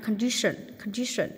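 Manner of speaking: "condition" stressed on the second syllable. Shown as a demonstration. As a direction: punch the middle syllable of "condition". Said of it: "nhân âm hai". (nhấn âm hai "condition")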